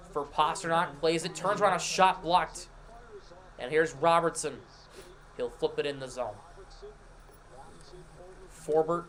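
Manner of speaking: brisk hockey play-by-play call; live play-by-play. Acted. Streamer sets up the Bruins game for chat in live play-by-play. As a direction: call the action as it happens.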